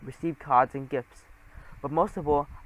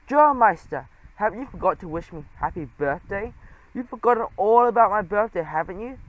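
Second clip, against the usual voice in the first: Trap's brash voice; 5 semitones higher, 4 dB louder than usual. Acted. Trap barging in for his birthday.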